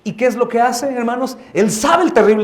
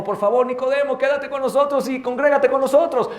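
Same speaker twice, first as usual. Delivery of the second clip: pleading churchgoer; 6 semitones higher than usual. Retold or imitated. Pastor voices church pleading with Nicodemus.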